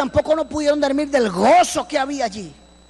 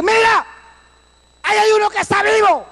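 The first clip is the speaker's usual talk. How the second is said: excited shout; 7 semitones higher than usual. Retold or imitated. Rescuer calling to the group on spotting the survivor, high excited shout. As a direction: yell it out, someone's alive.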